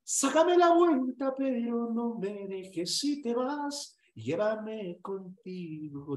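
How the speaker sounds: high, slow, begging lover; hammed-up plea not to be left; mock pleading. Acted pleading to ex. (súplica exagerada y lenta)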